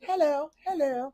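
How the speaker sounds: attempted English accent. Shown as a demonstration. Co-host put on the spot for her best English accent. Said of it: "do your best English accent".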